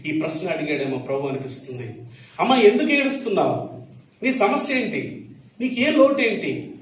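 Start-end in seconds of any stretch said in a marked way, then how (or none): 2.4-6.7 Jesus questioning. Retold or imitated. Jesus voiced questioning Mary.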